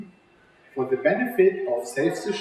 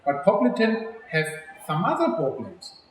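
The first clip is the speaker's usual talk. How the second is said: put-on lively storybook read-aloud for kids; reading to children. A narrator's reading. Teacher reading a picture book to children, lively and clear. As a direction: read it like story time with little ones.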